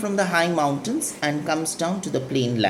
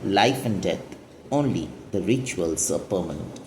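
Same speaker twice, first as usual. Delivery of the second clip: poem recitation; 6 semitones lower than usual. Acted. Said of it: "she goes on to say".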